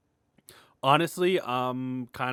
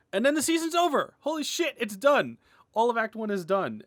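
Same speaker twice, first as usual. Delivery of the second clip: high, loud, elated burst of relief; excited outburst; 11 semitones higher, 6 dB louder than usual. Real, not acted. Animator announcing his season is finished, elated and loud. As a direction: let it burst out, thrilled it's finally over. Season finale finally done.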